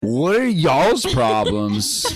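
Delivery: high, drawn-out comic protest; mock indignant. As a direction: stretch it out in put-on bafflement. Comic version of the mother's reaction.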